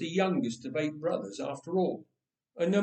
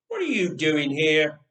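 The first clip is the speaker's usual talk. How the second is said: growled; 6 dB louder than usual. Acted. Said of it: "Eliab growled".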